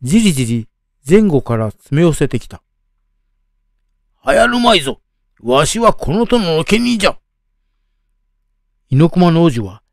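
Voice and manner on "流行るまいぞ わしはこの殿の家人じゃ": put-on higher, panicked old man shouting; an old thief blurting in a panic; hurried old man cry. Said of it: "慌ただしくこう叫んだ。".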